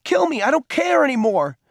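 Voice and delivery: high, reckless angry dare; desperate, provoking cry; taunting. A narrator's reading. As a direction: dare him wildly, pitch pushed up. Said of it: "he taunted".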